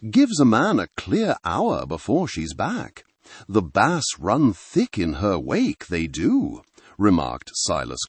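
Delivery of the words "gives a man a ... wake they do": a hint of a rustic Sussex fisherman's accent, low burr; local Sussex accent. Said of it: "his voice a low burr, thick with the local accent".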